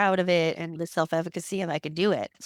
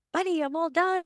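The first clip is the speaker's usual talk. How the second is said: much higher, happy announcement to her son; cheerful relief; 10 semitones higher than usual. Retold or imitated. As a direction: tell him brightly it's over. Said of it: "and I said".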